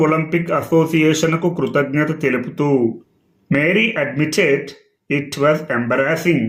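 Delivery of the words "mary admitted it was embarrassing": each English word read out slowly for the class; slow, careful reading pace; slow dictation reading. Shown as a demonstration. Teacher reads the English quote slowly to students, careful and measured.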